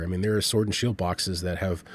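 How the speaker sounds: ordinary delivery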